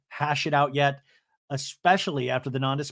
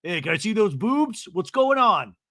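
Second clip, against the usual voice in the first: higher, louder mock sleazy boyfriend; imitating boyfriend; 8 semitones higher, 5 dB louder than usual. Boyfriend calling Jen on the phone, hammed-up leering. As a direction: ham up a leering guy on the phone. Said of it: "He's like".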